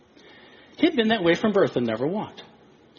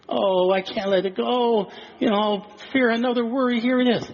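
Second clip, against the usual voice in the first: mock clinging worrier; 6 semitones higher than usual. Preacher mocking believers who cling to fear, coddling. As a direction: coo over the fear like a pet.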